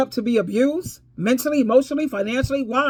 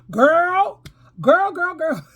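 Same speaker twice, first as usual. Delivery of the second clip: excited call; 5 semitones higher, much slower than usual. Real, not acted. Calling out to the viewers.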